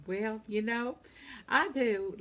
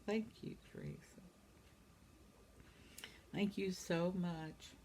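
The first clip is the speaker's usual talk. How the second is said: whisper; 10 dB quieter than usual. Real, not acted. Thanking a commenter softly.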